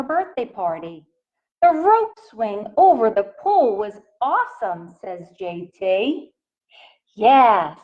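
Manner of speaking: gentle picture-book read-aloud voice; reading to children. A narrator's reading. Teacher reading a picture book to her class, in a gentle read-aloud voice. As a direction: read it out to the little ones, asking.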